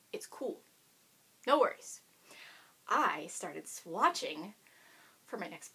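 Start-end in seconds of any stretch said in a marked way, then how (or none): 0.1-2.0 breathy no worries whisper; whispered aside. Real, not acted. Knitter shrugging off her untouched sweater, whispered. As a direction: whisper it off casually.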